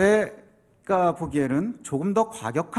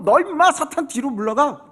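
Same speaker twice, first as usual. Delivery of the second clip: mild mock scolding; 4 semitones higher than usual. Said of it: "이러고 싸우고 있는 거예요".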